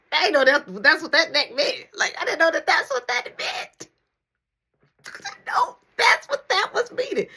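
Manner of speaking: high, laughing through the words. Real, not acted. Retelling the neck signal to the listener, laughing high. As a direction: crack up at your own mistake.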